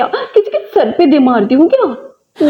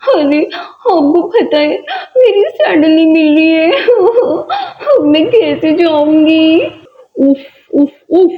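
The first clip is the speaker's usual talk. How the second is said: रोना. Acted. बेटी sandal के लिए रोती है.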